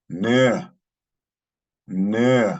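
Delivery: Ne, said slowly and clearly for learners; model pronunciation. Shown as a demonstration. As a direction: say "Ne" crisply, a teacher's model. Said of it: "means I in the subject sense".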